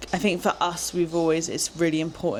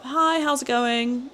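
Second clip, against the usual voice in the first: higher, slow put-on Aussie "Hi, how's it going"; Aussie greeting; 7 semitones higher, slower than usual. Greeting a shopkeeper in a put-on Aussie way. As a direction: stretch it out like a cheery Aussie. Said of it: "which is a very Aussie thing".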